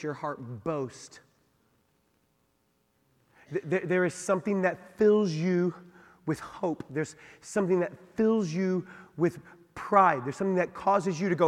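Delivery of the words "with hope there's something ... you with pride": usual speaking voice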